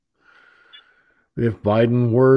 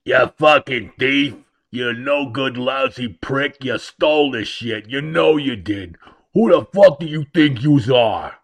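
mock angry heckler. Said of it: "sit there and go".

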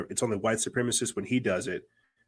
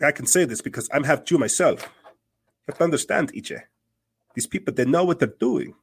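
imitating an old woman's thick Jewish accent, higher and louder; mock the lady's Jewish accent, raised voice; 5 semitones higher, 5 dB louder than usual. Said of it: "a thick Jewish accent".

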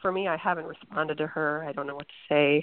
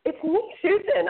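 hoarse, croaky voice from a bad cold; Kermit the Frog voice; 12 semitones higher, 4 dB louder than usual. Real, not acted. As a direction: croak it out with a sore throat. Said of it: "I sound like Kermit the Frog".

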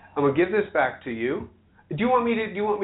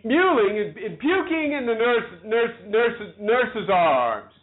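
higher-pitched, halting recitation; stammering; 5 semitones higher, slower than usual. Real, not acted. Woman fighting through Shakespeare's lines, high stammering delivery. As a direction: push through, repeating words as they stick. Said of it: "feel like the damn King's Speech".

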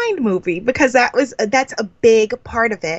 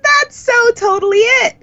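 high, louder emphatic yes; eager agreement; 14 semitones higher, 4 dB louder than usual. Real, not acted. Guest agreeing with the host's summary, high and eager. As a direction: leap in with excited agreement.

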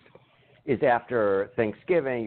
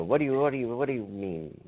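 words repeating like an echo; echo imitation; 3 dB quieter than usual. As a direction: stutter the start like a phone echo. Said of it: "you go".

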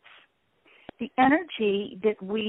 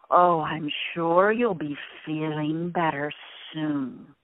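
reassuring; 4 semitones lower, slower than usual. Shown as a demonstration. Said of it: "It's a really good way to respond".

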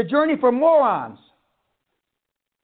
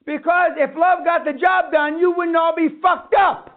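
shouting; 4 semitones higher than usual. Real, not acted. Ranting at seminar audience.

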